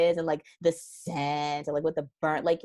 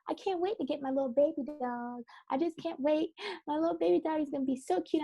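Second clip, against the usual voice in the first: put-on gushing baby talk; 10 semitones higher than usual. Imitating herself gushing daily to her husband about the puppy, high and cooing. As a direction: coo over the coming puppy. Retold excited self.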